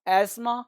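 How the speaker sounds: अस्थमा said as "as-ma" with a hissed S; two syllables in अस्थमा, plain S and no "tha"; TH dropped, S kept. Shown as a demonstration. Teacher steps learners toward it, अस्थमा as "asma". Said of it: "नहीं पढ़ेंगे तो अस्थमा हो जाएगा".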